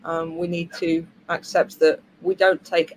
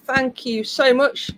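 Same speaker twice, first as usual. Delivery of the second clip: wearing a retainer; 5 semitones higher, slower than usual. Real, not acted. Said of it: "I can't talk today".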